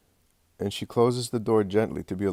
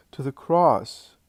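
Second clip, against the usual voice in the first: anguished whisper; 5 semitones higher, 4 dB louder, slower than usual. Acted. Mother's anguished cry.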